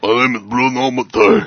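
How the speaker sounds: hammed-up stereotypical Italian voice; bad Italian accent. Podcaster answering on request as an Italian director, bad Italian accent. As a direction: play a cartoonish old Italian. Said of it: "do it in your best Italian accent".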